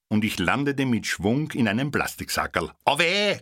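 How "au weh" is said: high, loud ouch; sudden cry of pain; pained yelp. A narrator's reading. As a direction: yelp as if struck in the dark. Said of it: "kam es postwendend aus dem Dunkel zurück".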